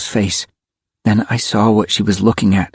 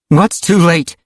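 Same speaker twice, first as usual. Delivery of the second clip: higher, demanding question; 8 semitones higher, slower than usual. A narrator's reading. Rachel questions the little girl, demanding. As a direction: demand an answer. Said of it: "Rachel demanded".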